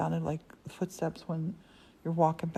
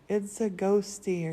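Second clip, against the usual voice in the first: put-on slow, slightly louder Scottish-accented tease; mock Scottish accent; 3 semitones higher, 5 dB louder, slower than usual. Morton pretending a ghost is upstairs, slow mock Scottish accent. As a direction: lightly imitate a Scottish accent, drawn out. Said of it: "with the Scottish accent".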